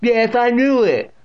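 high, drawn-out triumphant bellow. A narrator's reading. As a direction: bellow it slowly as the deaf great-aunt. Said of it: "bellowing in his ear".

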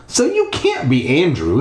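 crying out. Acted. Stephanie challenging the ghost, mild outcry. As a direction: cry it as a light objection. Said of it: "Stephanie cried".

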